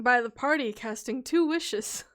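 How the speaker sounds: gentle story narration; soft narrator voice. Acted. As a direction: narrate softly to rest the voice. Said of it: "I'm talking like this to try and give my voice a break".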